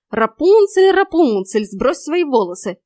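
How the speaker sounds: high, loud sing-song call, easing off; mock a fairy-tale call, starting high; mimicking mockingly. A narrator's reading. Heroine mimics the prince at the tower, mocking. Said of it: "передразнила я".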